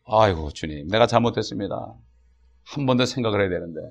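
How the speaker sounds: low, soft confession to the Lord; subdued, sighing admission of fault; repentant prayer. Retold or imitated. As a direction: own up quietly, with mild regret. Repentant prayer after reading Proverbs.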